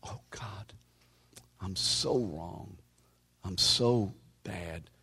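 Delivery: mope it out like a guilty man praying; retold self-pity prayer. Preacher retelling his prayer in the park, slow mock self-pity. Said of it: "And I remember this".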